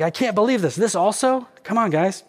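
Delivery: high-pitched mock exasperation; pleading, fed-up complaint, imitated; exasperated Nehemiah. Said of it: "This is like Nehemiah. He's just like".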